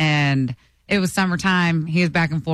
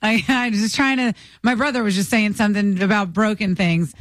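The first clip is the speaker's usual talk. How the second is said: flustered; 4 semitones higher than usual. Retold or imitated. Flustered excuse after getting caught.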